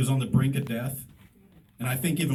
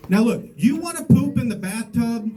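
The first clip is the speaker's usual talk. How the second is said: wag a finger at the little brother, hamming it up; mock scolding; 5 semitones higher than usual. Older brother mock-scolds the pooping brother, hammed-up.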